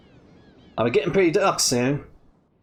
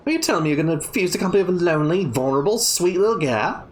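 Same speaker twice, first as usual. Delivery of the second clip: mock pitiful; faster than usual. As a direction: fake vulnerable, laying it on thick. Kid pleading, mock pitiful.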